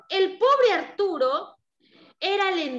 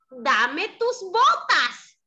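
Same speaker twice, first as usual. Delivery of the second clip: lightly voiced cat; 2 semitones higher, much slower than usual. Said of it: "el gatito le dijo".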